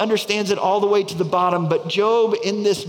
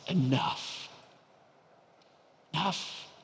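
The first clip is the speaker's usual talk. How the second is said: quiet firm refusal; 8 dB quieter, slower than usual. Acted. Job silencing the enemy's whisper, soft firm enough. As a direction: shut it down quietly.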